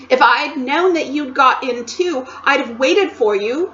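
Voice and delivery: happy and excited. Acted. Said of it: "too happy and excited".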